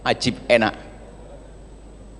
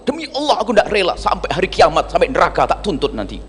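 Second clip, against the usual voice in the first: a hammed-up sworn grudge; mock angry oath; 3 semitones higher than usual. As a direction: shriek the oath like a hot-tempered girl, half in jest. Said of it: "kalau sudah marah itu langsung".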